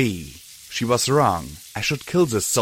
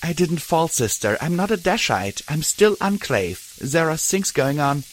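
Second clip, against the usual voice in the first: brittle, higher, heartbroken plea; 6 semitones higher than usual. Acted. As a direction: hold back tears while pleading. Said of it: "in a brittle, heartbroken voice".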